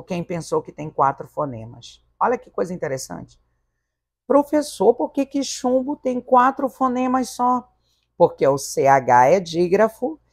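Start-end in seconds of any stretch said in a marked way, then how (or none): 4.2-7.7 high-pitched imitation student; high mock student voice asking why; questioning pupil. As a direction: play a puzzled pupil, pitched well up.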